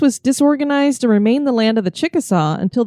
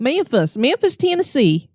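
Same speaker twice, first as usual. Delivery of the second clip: Memphis said Mænfəs in a Southern American accent, pitched higher; Southern accent demo; 5 semitones higher than usual. Shown as a demonstration. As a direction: coach it with a Southern Memphis twang. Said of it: "Try that first line".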